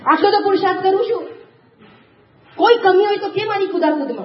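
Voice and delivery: indignant excuse, lightly acted; mock self-defence. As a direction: play the monkey king justifying his efforts. Monkey king defends his jumping.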